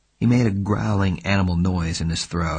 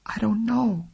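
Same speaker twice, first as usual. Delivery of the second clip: muffled through handkerchief; 13 semitones higher than usual. Acted. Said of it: "through it".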